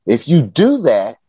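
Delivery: slow, deliberate listing of terms; measured, spelled-out mock job-application statement; upfront declaration. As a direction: lay down each condition one by one. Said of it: "almost like on a job application".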